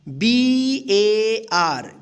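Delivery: letters spelled out slowly one by one; drawn-out letter-by-letter spelling. Shown as a demonstration. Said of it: "इस ए का आ उच्चारण होगा".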